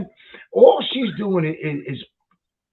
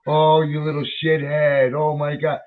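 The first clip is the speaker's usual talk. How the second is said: sweet tone demo. Shown as a demonstration. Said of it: "So if you go".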